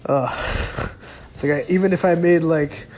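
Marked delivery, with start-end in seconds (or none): 0.1-0.9 breathy, voiceless "ugh" of frustration; frustrated groan. Retold or imitated. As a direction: let out a retold groan of exasperation. Retold frustration at feeling worse.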